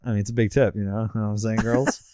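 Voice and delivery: cocky, low bragging; boastful swagger. Pretend. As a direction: brag it to the girls. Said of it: "You're very boastful on this".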